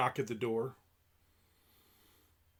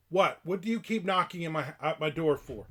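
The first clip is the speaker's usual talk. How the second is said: mock-annoyed demand, raised pitch; retold irritation; 3 semitones higher, 5 dB louder than usual. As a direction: retell snapping at a doorstep caller. Retold doorstep quarrel with salesperson.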